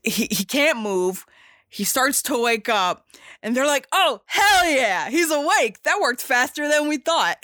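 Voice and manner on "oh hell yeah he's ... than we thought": excited cheer. Retold or imitated. Friends thrilled he wakes.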